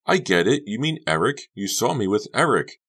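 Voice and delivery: high, loud knowing tone; Honey knowing. Acted. Honey thinks she has figured Becca out, high.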